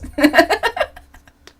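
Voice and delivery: loud burst of laughter; big laugh. Real, not acted. Laughing at her own slip of the tongue.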